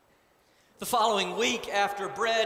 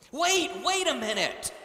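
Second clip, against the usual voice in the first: higher, louder call to stop; cry out; 6 semitones higher, 5 dB louder than usual. A narrator's reading. Committee chair stopping the party, raised cry. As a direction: halt them with a sharp raised cry. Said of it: "cried the committee chair".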